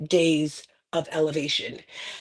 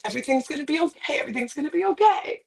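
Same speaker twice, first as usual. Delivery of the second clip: panicked inner voice; 6 semitones higher than usual. Retold or imitated. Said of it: "And my mind is just like".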